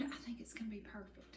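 soft confiding whisper. Real, not acted. Cook confiding in viewers about the cobbler, whispering. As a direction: breathe it like good news.

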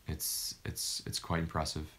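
dry sarcastic mutter under breath; muttered whisper. Real, not acted. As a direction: hush it out sarcastically. Muttering at YouTube.

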